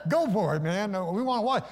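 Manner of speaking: acted egging on. Acts buddies goading Peter on.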